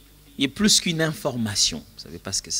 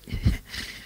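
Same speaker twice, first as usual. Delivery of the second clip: amused chuckle. Real, not acted. Amused at own pronunciation attempt.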